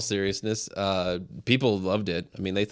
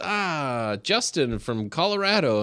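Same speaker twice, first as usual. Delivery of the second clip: put-on German accent; 5 semitones higher, slower than usual. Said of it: "he's German. I'm not gonna act like".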